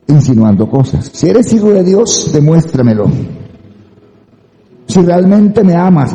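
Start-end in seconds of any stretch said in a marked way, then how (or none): 1.1-3.1 mock challenge starting high, then dropping; diablo tentador. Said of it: "Es el mismo diablo". 4.9-6.1 slow, raised-pitch mock plea; novio insistente. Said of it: "le dicen a la novia".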